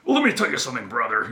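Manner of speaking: loud, high wrestling-promo bluster; Hulk Hogan. Retold or imitated. Wrestler addresses the crowd in his promo, loud and blustering. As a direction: cut a big wrestling promo, pushing the volume up. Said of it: "he did that in his promos a lot".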